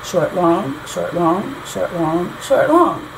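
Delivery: four short-LONG pairs, the last one lifted; iambic rhythm. Shown as a demonstration. Teacher checking the lyric has four feet, iambic rhythm. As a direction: count off "short, long" evenly, pausing after each LONG. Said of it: "still have that short, long".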